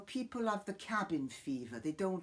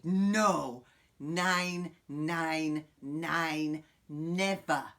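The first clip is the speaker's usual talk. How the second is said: emphatic no; 3 semitones lower, 5 dB louder, much slower than usual. Acted. Emphatic refusal, German nein.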